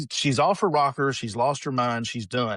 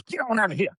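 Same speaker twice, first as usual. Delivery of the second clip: high-pitched mock shooing; granny shooing; 9 semitones higher than usual. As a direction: imitate granny running off dogs. Granny suddenly shooing away dogs, retold.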